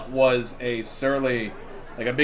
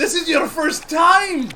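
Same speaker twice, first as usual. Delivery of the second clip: higher, slower and laughing, teasing; 14 semitones higher, 4 dB louder, slower than usual. Acted. GM teases the gnome about his first kobold, laughing. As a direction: tease him with an innuendo. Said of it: "don't say it like that".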